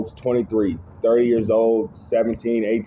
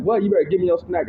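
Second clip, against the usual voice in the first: higher pitched, pushy mock demand; menacing older teen; 8 semitones higher than usual. Seventeen-year-old demanding the ten-year-old's snack, lightly voiced bully. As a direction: lean on him like a bully taking lunch. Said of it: "He said".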